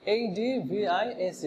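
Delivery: slow, letter by letter; spelling out letters. Shown as a demonstration. Teacher spells the word slowly for students. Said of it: "অ্যাডভাইস".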